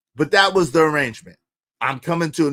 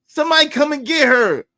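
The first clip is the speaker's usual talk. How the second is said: laughing plea; 7 semitones higher than usual. Retold or imitated.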